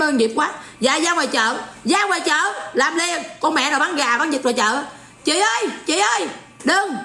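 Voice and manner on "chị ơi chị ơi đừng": put-on a girl begging, pitched higher; young girl pleading. The girl begs the poultry seller to spare the chicken, in a higher pleading voice. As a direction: beg like a little girl saving her chicken. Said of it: "Con nhỏ nó sẽ nói vậy nè".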